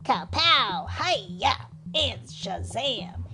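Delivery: lightly chanted ninja taunt; ninja bread man singsong. A narrator's reading. Ninja bread man dodging the pig, singsong taunt. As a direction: chant the battle cries in a put-on teasing voice.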